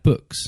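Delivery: "books" with a tight, closed English vowel; closed posh vowel. Shown as a demonstration. Imitating talk on lifestyle shows, "books" with a closed vowel. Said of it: "that vowel, that way that they close that".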